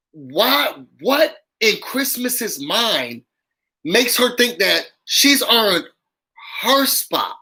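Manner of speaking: each word dragged out in disbelief; slow, pointed rhetorical question. Real, not acted. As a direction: stretch it out like you can't believe it. Incredulous rant, drawn out.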